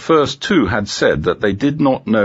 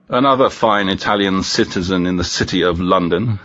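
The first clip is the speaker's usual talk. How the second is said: ironic. Acted. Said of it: "said Inspector Cecchino ironically".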